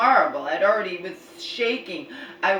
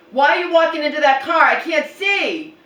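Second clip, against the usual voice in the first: incredulous shout; 8 semitones higher, 9 dB louder than usual. Retold or imitated. Quoting exchange with mom.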